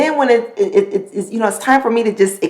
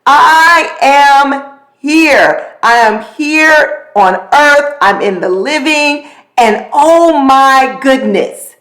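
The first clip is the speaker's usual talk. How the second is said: joyful proclamation; 4 semitones higher than usual. Retold or imitated. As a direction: announce your presence to the world. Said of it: "my shout today was just a shout of like".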